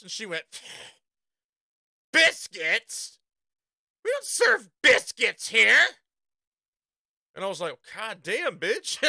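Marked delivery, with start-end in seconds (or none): 2.1-5.9 louder, slow, stuck-up Yankee cashier; mock-snooty Burger King cashier; snotty cashier. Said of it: "Everyone's real fucking snotty". 7.9-9.0 laughing disbelief. Retold or imitated. Laughing at no-biscuit answer.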